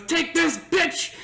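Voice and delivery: high-pitched mock bravado; retold triumphant cry. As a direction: hurl it out like a cocky drunk buddy. Friend fires the money gun.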